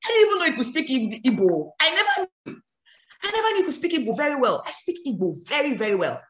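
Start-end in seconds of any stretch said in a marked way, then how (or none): 0.0-4.6 high, surprised exclaim. Retold or imitated. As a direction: act amazed, pitched up. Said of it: "they're like".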